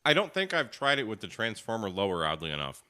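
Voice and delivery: talking with a mouthful; chewing a pretzel while talking; mouth full. Real, not acted. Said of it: "I have a pretzel in my mouth".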